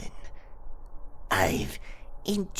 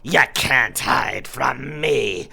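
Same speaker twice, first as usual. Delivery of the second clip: loud, high, pouncing taunt; spring out and catch him, yelling; gleeful shout; 6 semitones higher, 10 dB louder than usual. Acted. Werecat captain finds the hiding pirate, shouting in triumph.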